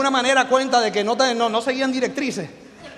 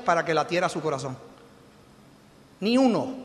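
quiet; 4 semitones lower, 7 dB quieter than usual. Retold or imitated. Husband gently reminding his wife Parsi, hushed and low. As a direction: hush it like a private truth.

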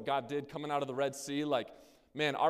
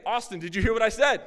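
higher, louder "did you hear"; wife calling out; 6 semitones higher, 7 dB louder than usual. Retold or imitated. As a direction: call through the bathroom door, insisting. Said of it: "she says again".

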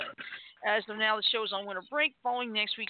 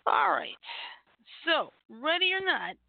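hushed whisper; 7 semitones higher than usual. Real, not acted. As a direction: drop to a whisper. Whispered aside.

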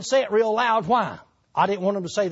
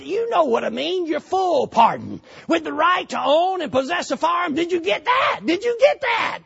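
excited wife; 8 semitones higher than usual. Retold or imitated. Wife presses on the phone.

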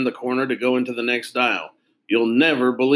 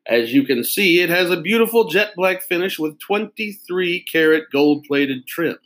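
lightly voiced pen salesman; 6 semitones higher than usual. Salesman showing off a fancy pen to kids, lightly voiced proud pitch. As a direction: savor each fancy word like a fussy salesman.

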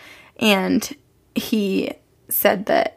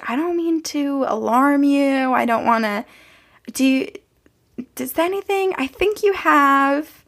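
drawn out, higher-pitched hedging; hesitant; 5 semitones higher than usual. Retold or imitated. Guest delicately raising a ghost sighting, hesitant. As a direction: break it to them reluctantly. Retold reluctant warning about ghost.

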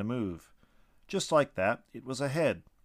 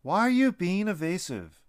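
higher, louder angry yell; 8 semitones higher, 7 dB louder than usual. A narrator's reading. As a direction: stand your ground and yell it. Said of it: "stood his ground and yelled".

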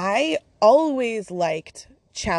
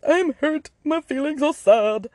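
mock whiny self; 8 semitones higher, 4 dB louder than usual. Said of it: "when I was going through this".

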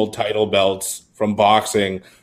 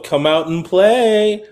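high, slow sing-song taunt; taunting warrior call; 8 semitones higher, slower than usual. Retold or imitated. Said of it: "Warrior's call of".

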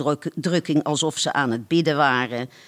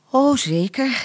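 sighing with pleasure; 7 semitones higher than usual. A narrator's reading. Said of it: "bijna zuchtend van genot".

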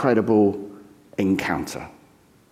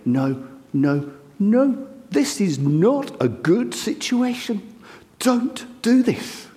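a higher, pleading voice of worried followers, slowing on don't do this; alarmed disciples; 8 semitones higher, slower than usual. Retold or imitated. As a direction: beg him to stop, anxious.

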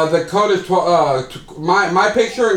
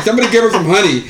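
retold joke line; 3 semitones higher, faster than usual. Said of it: "I didn't say fucking".

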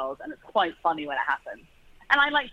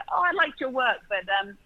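mock well-meaning critique; 3 semitones higher, 4 dB louder than usual. Actor critiques a colleague after the read-through, imitated well-meaning critique. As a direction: voice the other actor's advice, pitched up, louder at the end.

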